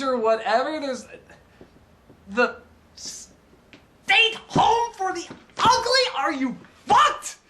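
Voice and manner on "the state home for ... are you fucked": high, slow, disbelieving cry; incredulous outrage. Acted. Reviewer mocking the state home for the ugly, incredulous and high. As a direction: stretch out ugly in shocked disbelief.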